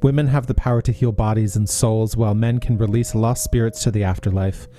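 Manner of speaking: measured podcast announcer read; scripted read, dropping low at phrase ends; book blurb read. Acted. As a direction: read the synopsis out like a presenter. Reads outro and book synopsis.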